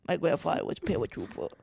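lightly imitating a Boston kid; mock Boston kid. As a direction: tease the accent back softly. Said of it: "It kinda sounds like there's a little kid".

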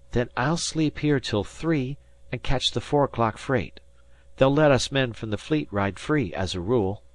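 a working lad explaining his plan; eager young Harvey. Acted. Narrator voices young Harvey.

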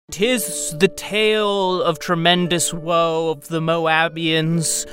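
lightly voiced dopey orc poet; dopey cartoon bellow. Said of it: "The orc wall starts".

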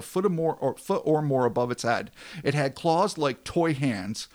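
punchy reporter read, phrase by phrase; staccato journalism. Acted. Host reads a reporter's account of the monster, staccato journalism. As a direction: read it as a list of reported facts. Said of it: "Employing a classic staccato journalism style".

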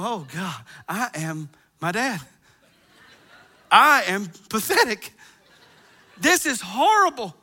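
dismayed self-mockery. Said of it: "I go".

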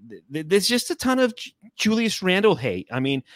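put-on New York accent. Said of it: "I'll go back to my".

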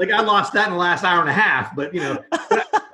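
talking through a chuckle; amused, half-laughing aside. Real, not acted. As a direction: let the laugh leak into the words. Laughing while telling the punchline.

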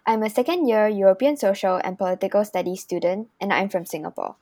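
measured, evenly paced host read; scripted podcast intro. Acted. Student host welcomes listeners to the podcast, scripted intro read. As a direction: read out a prepared show introduction.

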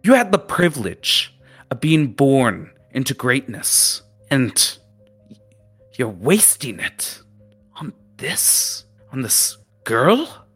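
high-pitched lecturing captain voice; berating captain. Acted. Captain lecturing the students on wasted privilege, high-pitched and stern. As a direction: scold them like a disappointed old captain.

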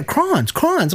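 Crons as one syllable, high-pitched; laughing, high Crons, crons; mimicked pronunciation. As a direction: say Crons to rhyme with ons. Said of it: "first time I heard that".

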